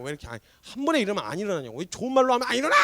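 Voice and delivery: rushed rant rising to a yell; exasperated scolding. Acted. Mother fed up with a sleeping child, angry scolding. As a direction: scold in a hurry, ending on an outburst. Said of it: "이러면서 막 깨워요".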